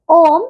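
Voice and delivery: ओम with a long-held vowel; extra-long vowel. Shown as a demonstration. Teacher showing pupils an extra-long vowel, held ओम. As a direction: stretch the vowel in ओम. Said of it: "ह्रस्व स्वरों से तिगुना समय लगता है".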